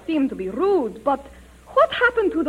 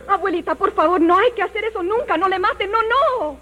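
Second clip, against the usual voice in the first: quick, higher, urgent begging; pleading in Spanish; 5 semitones higher, faster than usual. Acted. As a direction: plead fast to stop her. Red begs granny not to shoot.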